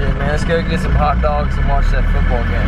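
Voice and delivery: playful put-on American accent; casual American bro accent; mock American accent. Shown as a demonstration. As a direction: ham up an American guy talking hot dogs and football. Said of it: "Say something in, uh, American accent".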